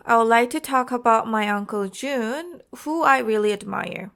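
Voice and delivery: slight rise on "like", emphasis on "Jun"; natural rise and fall, leaning on "really admire"; demonstrated intonation. Shown as a demonstration. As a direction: stress "really admire", then fall at the end. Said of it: "Let me explain this with a sentence".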